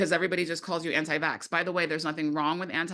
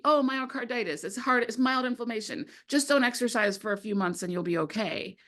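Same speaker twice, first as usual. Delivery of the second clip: dismissive mock quote; 6 semitones higher than usual. Dismissive official quoted in movie.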